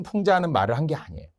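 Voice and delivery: ordinary talk, nothing marked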